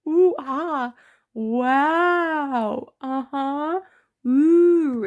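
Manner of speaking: loud, high ooh and ah of wonder; the orc gasps at the bug collection, loud and impressed. Retold or imitated. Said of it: "This orc is like".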